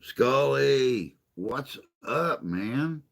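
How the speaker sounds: loud, high, bright call-out greeting; excited hello. Real, not acted. Streamer calling out to viewer Scully, excited loud greeting. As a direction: hail a friend who just showed up.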